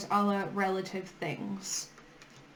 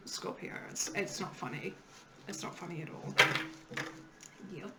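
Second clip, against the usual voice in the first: suppressed laugh; 3 semitones lower, 8 dB quieter, faster than usual. Real, not acted. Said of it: "I'm not laughing at you".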